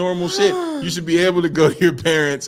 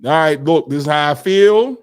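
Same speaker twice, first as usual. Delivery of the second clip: calm honest partner; 6 dB louder than usual. Retold or imitated. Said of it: "Transparency is key".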